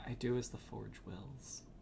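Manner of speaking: very quiet, voiced, not whispered. Game narrator voicing her quiet reply to the player: very quiet voice. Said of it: "not in a whisper, but just very quietly".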